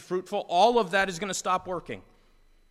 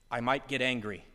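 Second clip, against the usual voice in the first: a hint of a meek spouse; mild friend's threat; 5 semitones lower than usual. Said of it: "your friend tells you".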